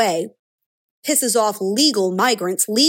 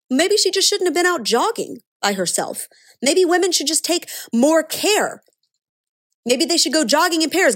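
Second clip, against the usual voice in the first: higher-pitched mock concern; sarcastic mimicry; 6 semitones higher than usual. Commentator parodying the media's victim shaming, mock-concerned. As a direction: parody a sanctimonious advice-giver.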